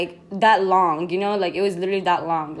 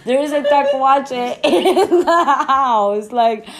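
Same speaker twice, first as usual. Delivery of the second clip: high, loud, stretched-out wail of disbelief; exasperated outburst; 8 semitones higher, 6 dB louder, slower than usual. Retold or imitated. Friend protesting grass worries with a possum indoors, exasperated. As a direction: wail it, half laughing, hammed-up outrage.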